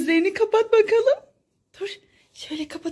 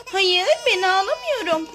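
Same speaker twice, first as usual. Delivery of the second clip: lightly voiced doll, near the speaker's own pitch; doll's denial, pitch falling at the end; Lol bebek. Doll answering whether it is the one crying, lightly voiced. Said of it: "Lol bebek, sen mi ağlıyorsun yoksa?".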